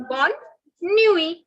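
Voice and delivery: bonne nuit with the final T silent, "nwee"; French bonne nuit. Shown as a demonstration. Teacher modelling bonne nuit for the class, clear and slow. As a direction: say bonne nuit slowly, dropping the last T. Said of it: "don't pronounce the last T".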